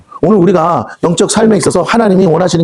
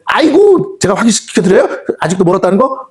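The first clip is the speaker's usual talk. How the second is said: mocking devil; 4 semitones higher than usual. Devil mocks believer to God.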